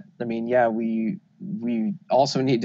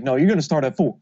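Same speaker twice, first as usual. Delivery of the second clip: louder, higher insistent yell; bossy organizer shouting the start time; Genie impression; 5 semitones higher, 5 dB louder than usual. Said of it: "Is that a good Genie impression?".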